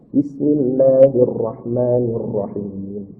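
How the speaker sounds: slow, measured, low recitation; bacaan tartil. Shown as a demonstration. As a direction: draw out each syllable, softly and unhurried. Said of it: "pelan-pelan ya, biasa aja". (bacaan tartil, pelan-pelan)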